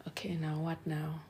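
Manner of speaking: hushed worried whisper. Retold or imitated. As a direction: whisper it to yourself. Retold thought, mom shut down.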